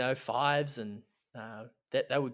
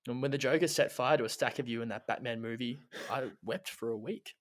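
mock-solemn poem reading. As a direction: read it like a heartfelt eulogy. Reads a mock love poem.

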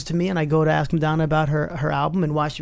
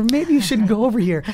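lightly voiced little voice, a bit higher; a hint of a small cautioning voice of intuition; tiny inner voice; 4 semitones higher than usual. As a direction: gently warn as the inner voice. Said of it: "It's a tiny voice that goes".

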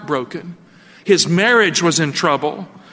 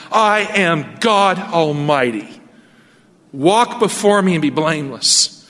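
voice of God; slower than usual. Acted. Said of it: "God said to him".

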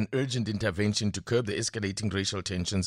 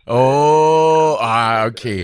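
surprised; 4 semitones higher, 13 dB louder, much slower than usual. Real, not acted. Host caught off guard by guest.

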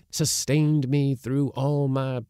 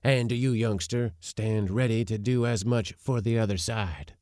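put-on high, eager old man voice; flushed with anticipation; excited old uncle; 8 semitones higher, 5 dB louder than usual. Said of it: "all animation and flushed with the foretaste".

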